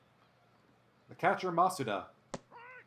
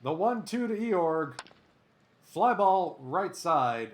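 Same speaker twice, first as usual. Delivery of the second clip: louder, higher baseball call; live play-by-play; 3 semitones higher, 6 dB louder, slower than usual. Pretend. Announcer calling a fly ball to right, play-by-play.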